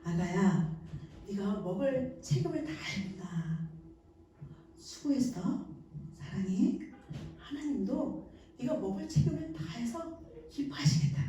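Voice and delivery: put-on a mother smiling at her sweaty, fed baby; tender praise. Shown as a demonstration. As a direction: tell the baby you're proud of it. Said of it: "우리 엄마가 웃으면서".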